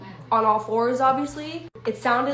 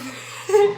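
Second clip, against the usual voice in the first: burst of laughter; 10 semitones higher, 4 dB louder than usual. Real, not acted. Nervous laugh at scary memory.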